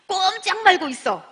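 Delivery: don't you dare move, said slow and loud; stern order. Retold or imitated. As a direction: plant each word like an order. Ordering friend to stay put.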